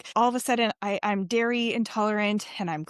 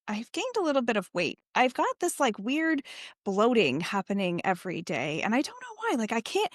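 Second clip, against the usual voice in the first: puzzled client. Retold or imitated. Client tells her coach of odd little symptoms, puzzled.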